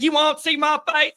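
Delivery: high mock voice. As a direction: play coy and refuse in a high put-on voice. Teasing reply, laughing.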